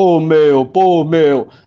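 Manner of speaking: classic broad paulistano accent, very slow drawl. Explaining regional accents, the speaker demonstrates the classic São Paulo accent. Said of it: "O clássico sotaque paulista".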